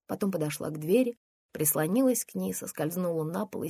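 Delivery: usual speaking voice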